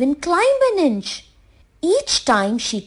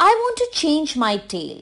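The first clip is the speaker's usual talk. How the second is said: insisting; 5 semitones higher than usual. Acted. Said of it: "insisted Giri".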